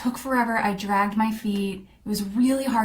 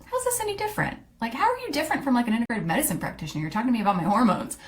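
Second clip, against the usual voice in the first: lightly voiced doubtful client, pitched higher; skeptical client; 3 semitones higher, much faster than usual. Clients questioning her coaching, mildly skeptical. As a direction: ask it like a puzzled skeptic. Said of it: "People would look at me like".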